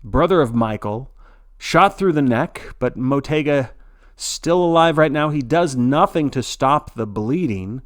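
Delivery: shocked sports-announcer outburst; excited. Acted. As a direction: blurt it out like breaking news. Announcer reacts to a shooting.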